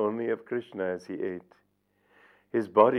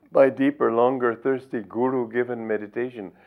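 emphatic recitation; 3 semitones higher, 5 dB louder than usual. Shown as a demonstration. Teacher reciting the guru's Samadhi poem to the audience, emphatic declaiming. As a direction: proclaim the poem line with fervour. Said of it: "I'm going to read you this poem".

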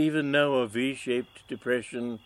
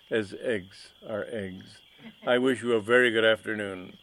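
mustache twirling villain; 4 dB louder than usual. Acted. Villain takes leave.

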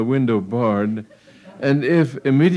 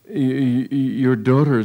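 nervous stammer; 3 semitones higher than usual. Acted. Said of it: "said Agravain hurriedly".

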